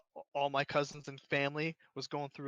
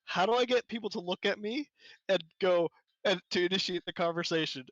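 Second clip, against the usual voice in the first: put-on puzzled kid; 4 semitones higher, 4 dB louder than usual. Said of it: "It was like".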